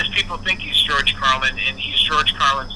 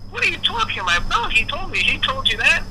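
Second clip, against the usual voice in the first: high incredulous; 11 semitones higher than usual. Retold or imitated. Lisa laughing in disbelief.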